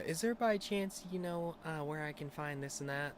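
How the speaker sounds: high-pitched, tentative customer asking for help; polite stranger. Retold or imitated.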